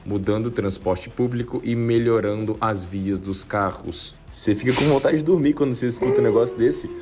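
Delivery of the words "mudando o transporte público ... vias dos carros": boring politician. Retold or imitated. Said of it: "estereótipo de político chato que fala".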